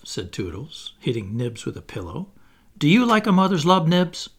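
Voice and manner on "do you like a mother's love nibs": put-on high, loud, quick child; eager challenge. Toodles hitting Nibs with a pillow, challenging. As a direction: fire the question off excitedly.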